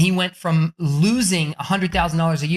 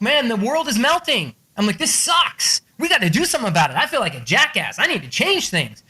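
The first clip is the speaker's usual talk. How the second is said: worked-up retelling, pitched higher; all fired up; 5 semitones higher than usual. Retold or imitated. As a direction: get riled and ready to act. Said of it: "he had me all fired up".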